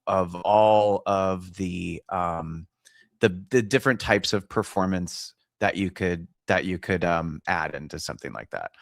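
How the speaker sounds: fuzzy, crackling distorted sound; distorted audio. Real, not acted. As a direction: voice through a bad mic. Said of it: "Sorry about the distorted audio".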